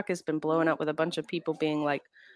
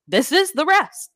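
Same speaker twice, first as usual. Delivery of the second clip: exasperated; 9 semitones higher, 5 dB louder, slower than usual. Retold or imitated. Exasperated reply.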